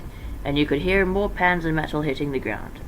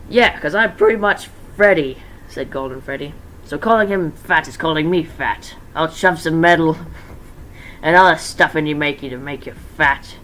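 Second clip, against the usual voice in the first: menacing Golden Freddy; 5 dB louder than usual. Acted. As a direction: threaten with a grin. Golden Freddy threatening, voiced.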